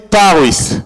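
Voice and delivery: Paris with the final S clearly sounded; Paris the English way, S pronounced at the end; English-style Paris. Shown as a demonstration. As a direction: say Paris ending on a crisp S. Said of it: "En anglais, on dit".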